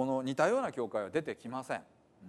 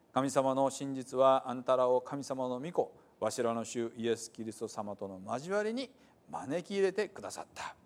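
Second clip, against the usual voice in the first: measured reading of the letter in Hiroshima dialect; scripture reading. Acted. Pastor reading Paul's letter to the church, measured reading. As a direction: read it out like the apostle's greeting.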